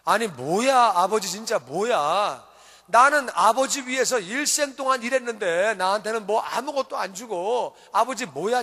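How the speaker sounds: put-on aggrieved older brother protesting to his father; mildly hammed-up indignant grumbling; wronged son venting, lightly acted; acted angry complaint. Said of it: "형이 들어와서 엄청나게 화가 났어요".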